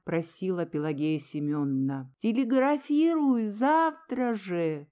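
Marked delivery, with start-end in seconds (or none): 2.2-4.9 calling out. A narrator's reading. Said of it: "крикнула Милочка".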